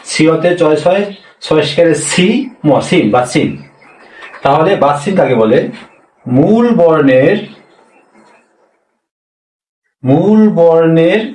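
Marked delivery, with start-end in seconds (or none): 6.2-11.2 slow dictation. Shown as a demonstration. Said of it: "তাহলে মূল বর্ণের নিচের বর্ণকে".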